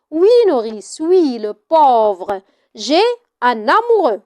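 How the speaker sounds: odd, slow and faraway admission; strangely, after a silence. Acted. Antigone admitting to her nurse, strangely. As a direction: say it strangely, as if from far away. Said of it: "Antigone, étrangement, après un silence".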